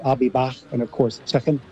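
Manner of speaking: light Scouse accent, k softened toward sh. Shown as a demonstration. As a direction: demo a Liverpool accent, final k like sh. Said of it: "I liked that American Scouse accent there".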